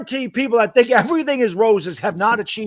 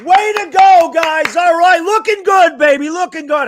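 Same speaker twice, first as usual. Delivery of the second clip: high, loud sarcastic cheerleading; hammed-up fake cheering for a losing team; mock cheerful; 7 semitones higher, 5 dB louder, slower than usual. Cohost mocking bad play with sarcastic cheering. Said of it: "Is that, is that cheerful enough for you?".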